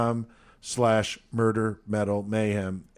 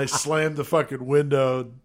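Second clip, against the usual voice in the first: usual speaking voice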